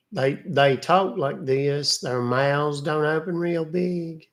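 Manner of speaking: slow, lazy country accent with a barely open mouth; a light Appalachian country accent, slowed right down. Shown as a demonstration. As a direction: drag out the country accent without opening your mouth. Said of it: "I can do the kind of country".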